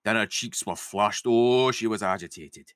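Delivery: drifting Scottish-northern Lizzie; vague northern accent. Acted. Lizzie tells Jamie about the man, vague northern accent. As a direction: read it in a roughly faked northern accent. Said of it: "go for a vague northern accent".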